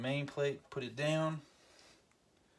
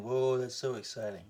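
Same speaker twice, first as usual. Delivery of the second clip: sarcastic viewer. Retold or imitated. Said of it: "I know what you're thinking".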